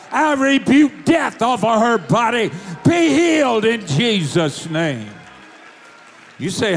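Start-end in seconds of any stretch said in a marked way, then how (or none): 0.1-5.1 commanding rebuke. Retold or imitated. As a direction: cast death out with full force. Preacher commands healing over stretcher.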